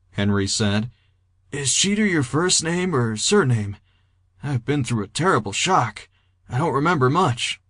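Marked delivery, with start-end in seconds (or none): 1.5-7.6 prim, princely politeness, pitched a little higher; talking like English royalty. A narrator's reading. Shocked patient questioning Jeter, politely princely. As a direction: speak with mannered, princely courtesy. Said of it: "Fats was talking like the Prince of England".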